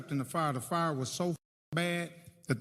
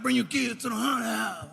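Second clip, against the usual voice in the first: mock hawking call; 7 semitones higher than usual. Acting friend's pitch for haunted house.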